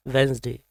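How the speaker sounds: वेंसडे with a silent first d; correct pronunciation. Shown as a demonstration. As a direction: say वेंसडे as "wens-day". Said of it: "इसकी right pronunciation है".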